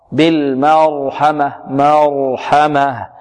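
مرحمة drawn out very slowly with a full fatha; very slow model reading. Shown as a demonstration. Teacher reciting slowly to avoid imala. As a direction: stretch مرحمة with an open, unbent fatha. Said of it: "واحذر من إمالة الفتحة".

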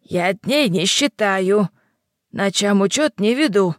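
put-on slow, gruff old witch; a touch of a rude crone; old hag. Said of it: "грубо отозвалась старуха".

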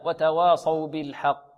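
slow, measured tajweed reading; recitation with pause. Shown as a demonstration. Teacher shows stopping at verse ends, slow measured recitation. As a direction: recite slowly, stopping at each verse end. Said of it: "ولنا أن نقف هنا".

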